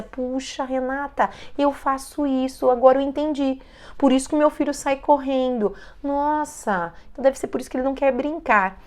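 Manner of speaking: leve imitação de mãe se dando conta; percepção repentina encenada. Acted. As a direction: tom um pouco mais agudo, de quem acabou de entender. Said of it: "criando uma consciência". (caindo a ficha, voz levemente aguda)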